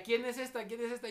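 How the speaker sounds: jealous wife. Retold or imitated. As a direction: accuse him sharply. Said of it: "mi esposa me decía". (esposa celosa reclamando, más fuerte y aguda)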